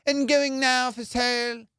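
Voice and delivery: high, drawn-out posh auctioneer patter; fancy auctioneer. Retold or imitated. Comic mocking auction crowd's caller, fancy auctioneer voice. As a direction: intone it like a fancy auction host. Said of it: "they always have these fancy voices".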